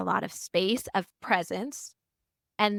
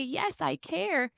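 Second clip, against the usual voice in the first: heartfelt yes; 8 semitones higher, 3 dB quieter, slower than usual. Retold or imitated. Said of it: "every part of my heart would say".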